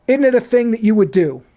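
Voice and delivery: "isn't" said as idn't, with a d; regional idn't. Shown as a demonstration. Host using the word in a sentence, regional idn't. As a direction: swap the s in "isn't" for a d. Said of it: "Use that in a sentence".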